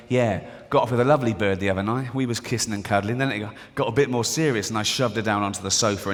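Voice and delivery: lightly voiced boastful bloke, low; bragging bloke. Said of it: "one of them's bragging".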